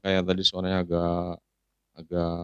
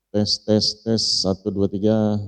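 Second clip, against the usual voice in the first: loud announcer mic check; 3 semitones higher, 6 dB louder, slower than usual. Shown as a demonstration. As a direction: test the mic like a stage host. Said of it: "Kita coba M C". (cek mik ala MC)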